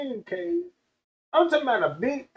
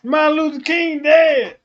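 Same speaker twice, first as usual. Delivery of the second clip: shouted denial; 4 semitones higher, 7 dB louder than usual. Retold or imitated. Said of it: "You gonna be like".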